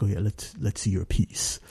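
low James Earl Jones-like voice; booming director voice. Retold or imitated. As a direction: imitate a deep-voiced director, unimpressed. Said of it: "it's like James Earl Jonesy".

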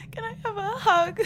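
fast, sniffly ask; teary plea. Acted. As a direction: sob a hopeful request. Crying woman asks for a hug.

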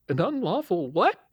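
genuinely lost, high question; confused. A narrator's reading. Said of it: "genuinely confused".

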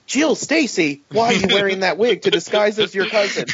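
high startled Peter, almost laughing; high mock surprise. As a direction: play a startled hero, voice lifted. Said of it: "Peter guessing again".

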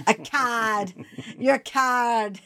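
"cad" said slowly as one clipped syllable. Shown as a demonstration. British pronunciation of "cad", slow demo. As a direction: stretch out "You're a cad." slowly. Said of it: "turn the word coward into a one-syllable word".

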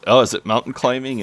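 a touch of hopeful excitement; mildly excited. Retold or imitated. Neil asks Will about the activity, mildly excited. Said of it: "Neil's all excited".

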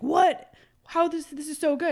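high-pitched mock disbelief; astonished customer. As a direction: imitate someone stunned by a first taste. Customer's reaction to tasting sample.

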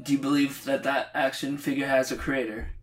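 soft New Zealand accent impression; a hint of a Kiwi preacher. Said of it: "I'm trying to do his New Zealand accent".

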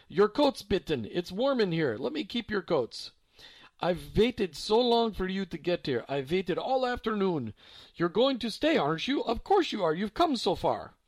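lightly voiced old German woman; eager old woman. A narrator's reading. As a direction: beg them to stay, long awaited.

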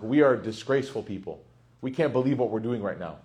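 low-pitched, understated guilty confession; subdued admission of guilt, lightly acted; retold remorse. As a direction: voice a mild, sunken shame. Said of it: "felt so overwhelmed with, like, remorse and guilt".

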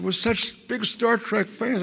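imitated starry-eyed girl, slowed down; gushing young fan. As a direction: coo it adoringly, drawn out. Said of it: "she said".

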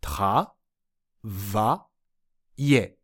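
た, va, いえ as three separate beats with pauses; syllable by syllable. Shown as a demonstration. Teacher assembling the word from its parts, た, va, いえ one by one. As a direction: break it into た... va... いえ, each low and detached. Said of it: "と発音します".

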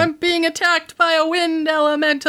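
high, frantic call for help; panicked cry. Acted. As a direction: shout for rescue, high and panicked. Librarian calls out from whirlwind.

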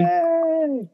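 high squeal of joy; excited cheer. Real, not acted. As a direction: cheer like a fan. Cheering for a winner.

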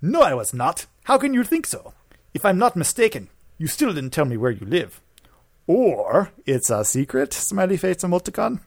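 mock Ukrainian accent. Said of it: "I wanna be a Ukrainian boy now".

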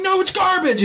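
very high, indignant yell; squeaky hammed-up scorn; mock outburst. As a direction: trash it with fake outrage. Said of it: "They're like".

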